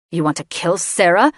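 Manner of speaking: booming. Acted. Son outraged at the mage, booming. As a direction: boom it across the hall. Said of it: "Layden boomed".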